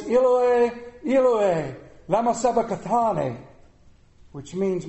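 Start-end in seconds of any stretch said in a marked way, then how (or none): 0.0-3.4 a loud, anguished cry to God, loudest on the first Eloi. A narrator's reading. Jesus on the cross crying out to God, loud anguished cry. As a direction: call the words out loud in anguish. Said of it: "Jesus cried in a loud voice".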